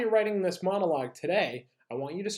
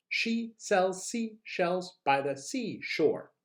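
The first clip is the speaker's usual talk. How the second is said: very slow, word-by-word delivery; slow tongue twister; 3 semitones higher, slower than usual. Shown as a demonstration. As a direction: separate each word carefully for learners. Models tongue twister slowly before repeats.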